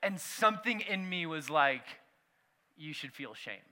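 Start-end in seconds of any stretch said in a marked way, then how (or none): 2.8-3.6 low, much softer voice of shame; inner voice. Retold or imitated. Inner voice telling him he should feel shame, low and soft. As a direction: drop it low and soft like a voice inside.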